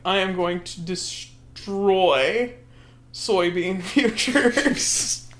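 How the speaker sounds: slow, lightly voiced villain proclamation; mock-grand and drawn out, with a laugh; evil villain. Villain revealing his evil plan, slow mock menace. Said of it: "What's your evil plan?".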